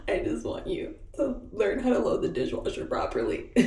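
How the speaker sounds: re-enacted weepy complaint; imitated crying. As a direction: plead as if crying hysterically. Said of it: "Like, fully hysterically crying".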